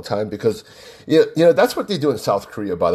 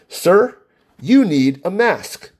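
higher, slow, lightly imitated Filipino accent; 5 semitones higher, slower than usual. Store worker stopping a customer at the door, imitated Filipino accent. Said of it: "heavy Filipino accent".

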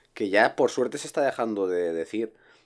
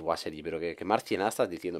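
incredulous scoff; 5 semitones lower, 9 dB quieter than usual. Retold or imitated. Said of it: "vas a decir".

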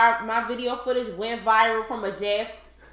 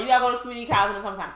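mom voice; much faster than usual. Retold or imitated. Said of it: "my mom was like".

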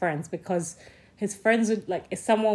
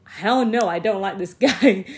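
louder, laughing hell no; second hell no, louder and amused; emphatic refusal; 5 dB louder than usual. Retold or imitated. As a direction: push it out and break into a laugh. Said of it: "And I was like".

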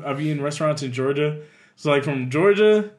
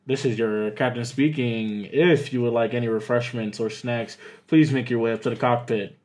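low mock captain's intercom voice; lightly hammed-up pilot announcing to passengers; pilot announcement; 6 semitones lower, 4 dB quieter than usual. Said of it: "this how they do flight attendant in, uh, Spirit Airlines".

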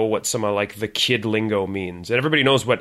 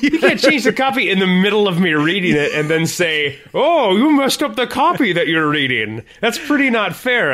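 laughing protest; 7 semitones higher, 5 dB louder than usual. Real, not acted. Co-host changed copy mid-read.

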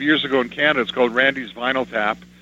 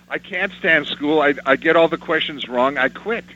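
put-on upset child; 3 semitones higher than usual. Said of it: "I got up from my desk crying".

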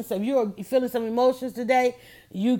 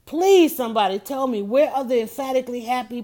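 pleading outburst. Real, not acted. Pleading with the audience.

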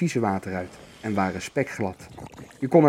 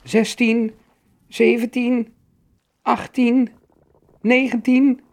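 put-on high young troll voice counting jumps; squeaky child counting hop by hop; counting out loud; 11 semitones higher, 5 dB louder, slower than usual. A narrator's reading. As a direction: call each number separately, pitched way up. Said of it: "Hij telde elke sprong hardop".

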